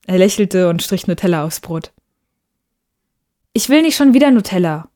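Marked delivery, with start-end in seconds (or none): 3.5-4.9 put-on higher, louder little girl complaining; whiny child. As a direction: pout it like a fussy little sister. Sister refuses breakfast, child voice.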